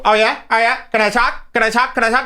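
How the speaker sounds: put-on sing-song it like a smug kid; mocking whine.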